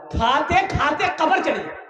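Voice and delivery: high, laughing jab at doctors; laughing mockery. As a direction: laugh it out mockingly. Mocking the medicine routine. (हँसते हुए मज़ाक)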